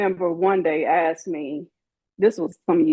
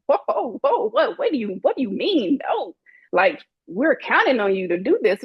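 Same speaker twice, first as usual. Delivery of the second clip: shocked protest; 4 semitones higher than usual. Retold or imitated. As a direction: voice jumps high on a startled whoa, what. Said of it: "they were like".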